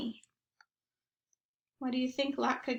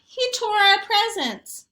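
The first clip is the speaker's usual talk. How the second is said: put-on slow, louder and higher kid complaint; upset boy; 9 semitones higher, 7 dB louder than usual. A narrator's reading. Zach telling family the dog tore presents, slow aggrieved kid voice. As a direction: drag it out, aggrieved.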